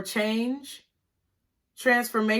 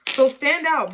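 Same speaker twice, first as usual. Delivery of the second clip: higher and louder, driving it home; emphatic push; 4 semitones higher, 5 dB louder than usual. Real, not acted. Tarot reader urging her viewers, higher and louder. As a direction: give it a firm rallying push.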